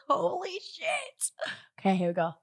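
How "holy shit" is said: stunned, drawn-out and high; amazed. Real, not acted. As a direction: blown away by the taste. First bite of the dessert.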